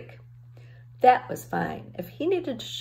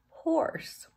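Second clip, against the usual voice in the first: breathy unvoiced horse, soft and falling; whispered punchline; 10 semitones higher, 5 dB quieter than usual. A narrator's reading. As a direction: drop to a whisper on the pun. Pun punchline shore horse.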